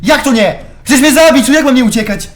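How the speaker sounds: high, loud, outraged protest; indignant yelling. Real, not acted. Gamer protesting that he must flee a killer, indignant yelling. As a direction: shout it back in disbelief. Arguing with game while attacked.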